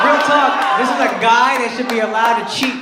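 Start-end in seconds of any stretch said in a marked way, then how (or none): 0.0-0.8 real talk raised and emphatic; louder, higher real talk. Acted. Comic telling the crowd, louder emphatic insistence. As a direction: hammer it home to the crowd.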